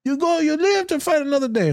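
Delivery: high mock brushing-off; imitating a friend shrugging off pain; dismissive buddy. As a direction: pat him on the back and dismiss it. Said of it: "They're like".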